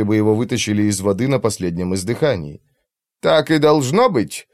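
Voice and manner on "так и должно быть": slow, worried, leaning in; anxious question. Acted. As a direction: ask it with alarm. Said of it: "с тревожным вопросом". (тревожный вопрос)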